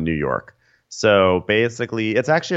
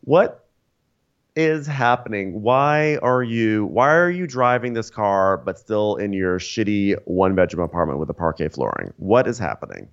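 incredulous; 2 semitones higher than usual. Retold or imitated. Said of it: "And I'm like".

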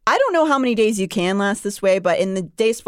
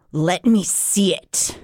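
a hint of a menacing fae; growling Rhysand; much slower than usual. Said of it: "A growl ripped from him".

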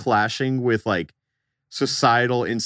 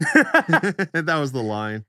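real laugh running into the words; 4 semitones higher, much slower than usual. Real, not acted. Storyteller caps the story of the rude kid, laughing. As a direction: laugh through the punchline, slowed by it.

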